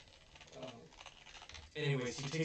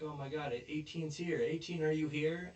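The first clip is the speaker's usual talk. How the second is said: loud, higher search call for number eighteen; 5 semitones higher, 6 dB louder than usual. Retold or imitated. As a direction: yell across the room, hunting for her. Calling out for contestant eighteen.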